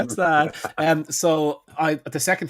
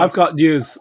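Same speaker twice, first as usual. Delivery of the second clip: louder, bursting to share news; eager announcement; 3 semitones higher, 7 dB louder, slower than usual. Real, not acted. Telling friends his news, eager and loud. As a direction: blurt it out, eager to tell.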